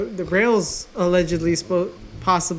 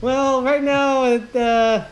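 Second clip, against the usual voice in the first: newscaster voice; 3 semitones higher than usual. Pretend. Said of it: "you sounded like, um, a newscaster".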